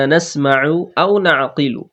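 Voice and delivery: slow, careful Arabic recitation; recitation demo. Shown as a demonstration. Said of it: "নরম আওয়াজে তাড়াতাড়ি পড়তে হবে". (আও নরম আওয়াজে তাড়াতাড়ি)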